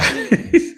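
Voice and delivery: high-pitched mock whimper; fake cry. Mocking a tearless cry for the audience, high fake sobbing. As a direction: squeak out an obviously fake cry. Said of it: "don't give me no fake Erica Kirk cry".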